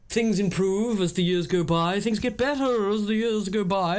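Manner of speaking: slow, lightly put-on posh impression; mock upper-class musing; posh Will. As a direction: draw it out like an upper-class bore. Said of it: "You do sound like that".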